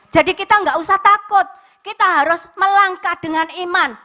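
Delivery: high, loud rising sermon build; fervent preaching. Acted. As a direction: preach it with full fire to the congregation. (berkhotbah penuh semangat, suara tinggi dan keras)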